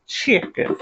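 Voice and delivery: "Chicken" in a playful put-on accent. Shown as a demonstration. Cook to viewers, saying "Chicken" her special accented way. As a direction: give "Chicken" a fun accented twist. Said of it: "I always like to say it a certain way with accent".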